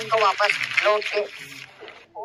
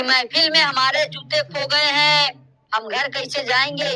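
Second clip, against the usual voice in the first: the couplet repeated at normal pace, a bit fuller; repeated shayari line. Acted. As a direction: say the couplet again for effect, as a mushaira poet does. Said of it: "चलो, मैं भी शायरी कर लेता हूँ". (शायरी की पंक्ति दोहराना)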